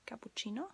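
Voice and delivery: "cappuccino" ending in a short Italian O; Italian pronunciation. Shown as a demonstration. Teacher repeating the Italian form, short O ending "cappuccino". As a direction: say "cappuccino" the Italian way, pure final O. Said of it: "in Italian it's cappuccino".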